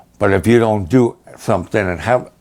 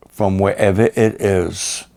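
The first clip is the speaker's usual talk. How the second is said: calm assurance; 3 semitones lower than usual. Retold or imitated. Pastor's calm faith answer.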